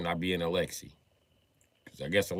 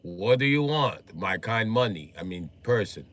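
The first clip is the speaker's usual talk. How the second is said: put-on Russian accent; 5 dB louder, slower than usual. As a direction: answer the phone as a Russian junkyard guy. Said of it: "Put the phone like".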